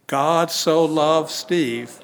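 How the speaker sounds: slow, with "so" pressed hard; stress on so. Shown as a demonstration. Preacher putting his own name in the verse, stressing "so". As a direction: lean into "so" and let it linger. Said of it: "with the same emphasis".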